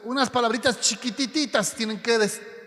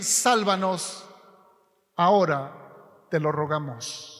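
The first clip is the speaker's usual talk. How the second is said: pleading; 4 semitones lower, slower than usual. Shown as a demonstration. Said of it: "Es una súplica".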